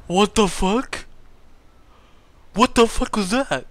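high, loud alarmed outburst; shocked. Real, not acted. Gamer reacting to flipping the car, shocked.

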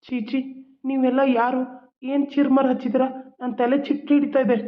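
a man who recognises no one, upset; confused agitation. Acted. Confused brother rejects his family. (ಗೊಂದಲದ ಕಿರಿಕಿರಿ ಧ್ವನಿ)

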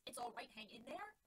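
slow, disbelieving echo with a rise at the end; mocking repeat. Alex mockingly echoing Dorothy's words to Button Bright, slow and incredulous.

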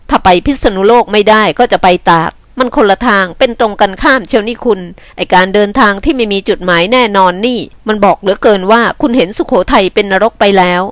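lightly voiced, brusque man; scolding man. Man questions a runaway woman's journey, mildly scolding. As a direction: scold her with some force.

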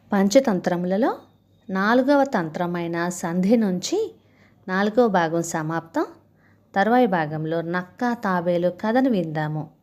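animated, lilting storytelling voice; story narration. A narrator's reading. Narrator telling a Panchatantra fable of monkey and crocodile, expressive storytelling. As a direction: read the fable with rising and falling phrases.

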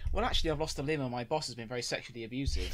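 giggling through a fake sob story; laughing mock reply. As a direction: play the oversharing customer, laughing. Acted absurd call reply.

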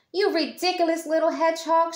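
high, fast, laughing words; laughing girl. A narrator's reading. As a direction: laugh at the silly hedgehog. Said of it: "she laughed".

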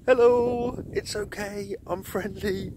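high, loud friendly hail; calling out friendly. Retold or imitated. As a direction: call across the dark to show you're harmless. Calling out to the nervous woman.

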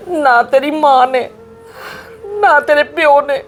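a mother begging through tears; tearful pleading. Acted. Mother pleads tearfully with daughter not to leave home. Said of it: "ਤੁਸੀਂ ਹੁਣ ਨਾ please ਰੋਵੋ ਨਾ".

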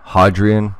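"Hadrian" with the a of "father"; broad-a pronunciation. Shown as a demonstration. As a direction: try "Hadrian" starting like "hod", questioning. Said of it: "Is it Hadrian or Hadrian?".

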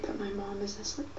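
whispering so mom can sleep; hushed whisper; quiet at night. Real, not acted. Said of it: "I'm sorry I'm talking quiet".

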